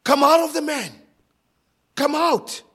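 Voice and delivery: loud, high shouted order; sovereign decree. Acted. Christ commanding demons to leave the man, shouted decree. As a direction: command it with absolute authority. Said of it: "it was a sovereign decree".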